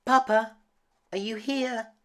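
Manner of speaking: high calling cry. A narrator's reading. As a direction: call into the dark castle. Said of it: "cried Belle".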